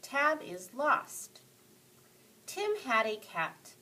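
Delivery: smooth, flowing read-aloud voice; storyteller. Shown as a demonstration. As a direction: read it like you're telling a story. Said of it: "I want to sound more like a storyteller".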